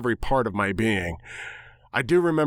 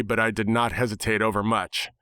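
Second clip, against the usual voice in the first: usual speaking voice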